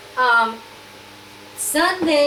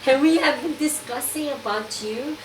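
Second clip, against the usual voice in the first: imitated Dutch accent, slightly raised pitch; Inga; 4 semitones higher than usual. Dutch friend arranging a phone for her, imitated accent. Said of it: "a Dutch accent".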